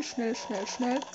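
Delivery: soft hurried urging; hushed urgency. Real, not acted. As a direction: whisper in a rush. Hiding from monster.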